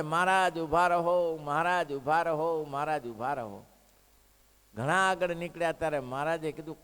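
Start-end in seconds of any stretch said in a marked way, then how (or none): 0.0-3.6 mild mock shout. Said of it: "રાડો પાડે".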